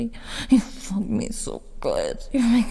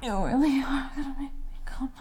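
aroused whisper; 4 semitones higher, 5 dB quieter than usual. Acted. Nearing climax.

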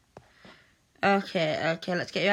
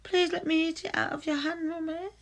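higher, faster eager begging; hurried, pleading request; eager plea; 8 semitones higher, faster than usual. Pretend.

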